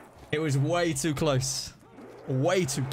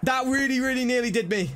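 hyped; 7 semitones higher than usual. Real, not acted. Hyping a big donation.

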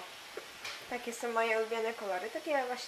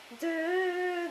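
fanfare imitation; 6 semitones higher than usual. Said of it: "nie będę udawać fanfarów".

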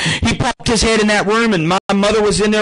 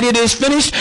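Jesus crying out; 5 semitones higher than usual. Retold or imitated. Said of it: "when he cried".

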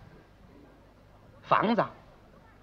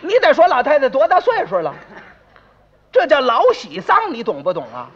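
loud, raised-pitch self-justification; indignant retort; 3 semitones higher, 4 dB louder than usual. Acted. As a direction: shout the nosy neighbour down. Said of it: "把街坊顶回去了". (理直气壮、高声顶撞)

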